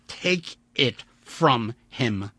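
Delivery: slow, insistent, every word weighed; slow firm repeat. Acted. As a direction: drag it out as a warning. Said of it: "Vandeleur repeated".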